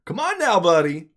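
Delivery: mock scolding a friend to stand down; coaxing come on now. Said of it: "gives him that look like".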